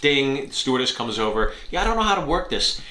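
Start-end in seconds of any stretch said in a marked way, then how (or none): 1.7-2.8 dopey passenger. Retold or imitated. Mocking the clueless passenger.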